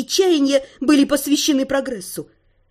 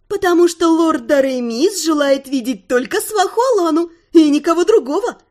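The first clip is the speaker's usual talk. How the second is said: teasing singsong; 4 semitones higher than usual. Acted. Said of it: "пропела Тирель".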